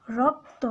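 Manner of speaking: রক্ত with a clear open অ after র; correct pronunciation. Shown as a demonstration. Teacher confirming the right sound for students, clear and deliberate. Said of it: "একটা র পরে আমরা একটা অ পাই".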